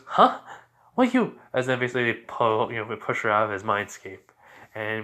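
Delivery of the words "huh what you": much higher, louder startled yelp; shocked squeak. Acted. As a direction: squeal in disbelief. Told she has competition.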